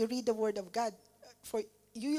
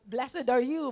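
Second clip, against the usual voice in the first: proclaiming louder; 7 dB louder than usual. Retold or imitated. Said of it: "he started actually".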